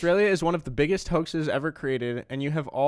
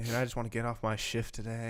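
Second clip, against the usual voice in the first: put-on whisper, lower and quieter; 4 semitones lower, 9 dB quieter than usual. Acting out what a fake local might secretly whisper: imitating someone whispering. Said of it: "they whisper to you about".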